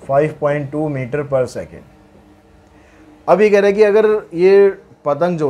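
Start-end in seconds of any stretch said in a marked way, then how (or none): 0.0-1.9 slow dictation. Shown as a demonstration. Repeats the answer for dictation.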